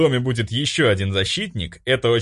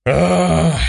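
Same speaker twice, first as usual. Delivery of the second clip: loud exasperated howl; furious wail; 8 semitones higher, 7 dB louder than usual. Acted. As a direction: let out a yell of rage. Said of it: "завопил я". (крик ярости)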